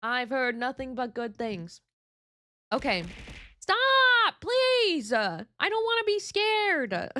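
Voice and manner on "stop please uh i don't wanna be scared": high, loud startled plea to stop; scared plea. Real, not acted. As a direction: beg them to stop, truly spooked. Scared by chat's repeated alert sound.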